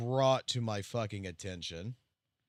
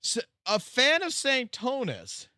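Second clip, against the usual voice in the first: stunned disbelief; 11 semitones higher, 7 dB louder, slower than usual. Real, not acted. Shocked by threat message.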